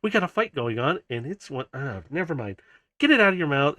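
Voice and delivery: mildly exasperated scolding; a little flustered. Acted. Kiara scolds a bot with a fight looming, flustered. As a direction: start to complain, give up, then scold. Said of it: "flustered a little bit".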